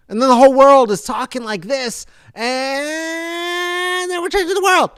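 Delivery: high, loud, building hype; rally the audience like a preacher; excited rallying. Real, not acted. Rallying speech to viewers.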